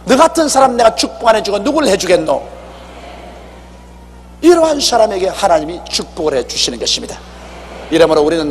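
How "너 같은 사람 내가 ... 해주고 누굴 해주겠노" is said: pleased God. Pretend. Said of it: "그러면 하나님께서".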